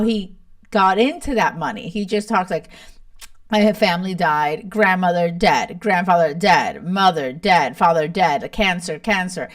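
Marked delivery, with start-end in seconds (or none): 3.5-9.5 emotionless list of dead relatives, mildly mocked; mimicking Leo. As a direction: rattle off the deaths with no heart. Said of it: "he says it like that".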